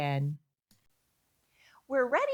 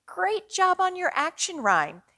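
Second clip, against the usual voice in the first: much higher, louder cheer; excited praise; 10 semitones higher, 6 dB louder than usual. Real, not acted. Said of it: "praising children at home".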